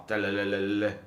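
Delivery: low, rolling mimicked ringtone; spoken ringtone imitation; imitated phone ring. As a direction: trill a phone ringing, low and monotone. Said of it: "전화가 와".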